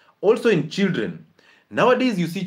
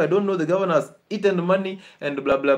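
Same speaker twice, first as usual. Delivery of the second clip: raised, exasperated mock of the mother griping; imitating the mother's complaint about the governor; complaining mother; 5 semitones higher than usual. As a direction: whine it like a patient blaming everyone. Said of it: "she's actually saying".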